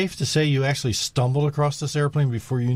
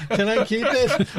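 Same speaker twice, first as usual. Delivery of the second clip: put-on high laughing kid voice; pleading kid; 11 semitones higher, 5 dB louder than usual. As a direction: beg like a little kid. Child asking to keep pet.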